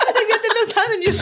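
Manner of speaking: high, laughing aloud as she talks. Real, not acted. Laughing at her friend's printer joke, high and giggly. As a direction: crack up at the joke.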